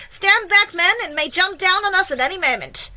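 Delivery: high, loud command; yelled warning. A narrator's reading. Police chief warns his men, yelling. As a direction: shout the men back from danger. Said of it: "yelled the chief of police".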